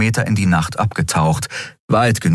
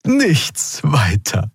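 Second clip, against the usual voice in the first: slow, drawn-out creature voice; old Draxyl; 9 semitones higher, much slower than usual. A narrator's reading. Old Draxyl Xea shrugging off the danger. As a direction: slowly play it down. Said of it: "zeigte ein Lächeln".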